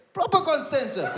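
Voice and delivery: high-pitched incredulous check; mocking disbelief. Call centre agent checks caller's suburb, mocking disbelief. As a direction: press it high, making fun of him. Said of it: "at the call center making fun of me".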